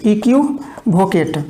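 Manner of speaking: slow dictation. Shown as a demonstration.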